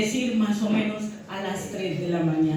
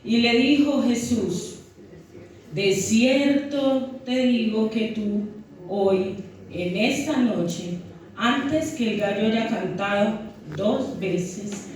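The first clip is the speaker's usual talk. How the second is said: scripture reading. Acted. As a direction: read the passage solemnly to the church. Reads scripture aloud to congregation. (lectura bíblica pausada y solemne)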